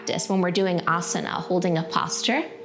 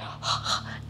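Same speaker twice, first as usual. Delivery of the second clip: short puff into the palm; quick breath test exhale; 8 dB quieter than usual. Shown as a demonstration. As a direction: huff to smell your breath. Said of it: "How's your breath today?".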